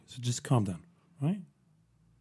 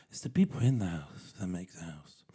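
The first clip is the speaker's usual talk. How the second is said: softer, lower, a mock greeting-card sage; mock hallmark wisdom; 6 semitones lower, 6 dB quieter than usual. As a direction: deliver it like a cheesy motto card. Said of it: "it's my hallmark wisdom for you".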